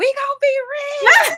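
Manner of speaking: very high, loud excited shriek. Retelling what she screamed when the speaker got to her house, retelling her scream. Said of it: "she started screaming to me".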